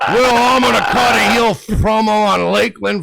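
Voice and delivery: mock yelling quote. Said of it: "you're yelling at me going".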